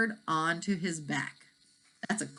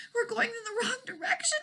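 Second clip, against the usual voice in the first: crying out; 4 dB quieter than usual. Acted. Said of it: "cried through the rumbling storm".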